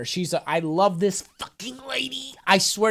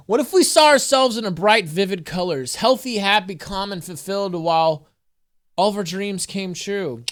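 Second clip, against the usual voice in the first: earnest inspirational read-aloud; affirmation reading; 2 semitones higher, 3 dB louder than usual. Acted. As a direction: read it like an uplifting oracle card. Reads affirmation card aloud.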